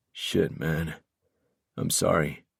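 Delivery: soft, regretful apology; gentle, subdued sympathy; comforting. A narrator's reading. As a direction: console a friend quietly. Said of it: "trying to comfort me".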